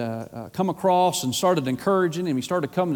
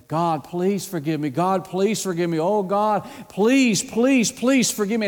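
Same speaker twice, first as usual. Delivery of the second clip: retold desperate prayer, building from level to higher pleas; imitated begging; 4 semitones higher, slower than usual. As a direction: imitate someone pleading, pushing up on each repeated "please". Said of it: "He was begging and begging and pleading and pleading".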